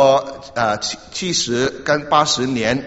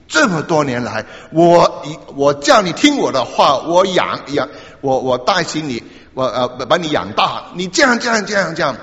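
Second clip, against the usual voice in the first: angry father; 2 semitones higher than usual. Retold or imitated. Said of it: "很生气".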